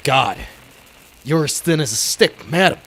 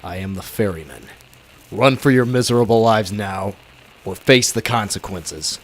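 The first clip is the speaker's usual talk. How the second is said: ominous masked avenger; 3 semitones lower, 4 dB louder than usual. Acted. Masked ferryman warning the thugs, low and menacing. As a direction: announce yourself as death come calling.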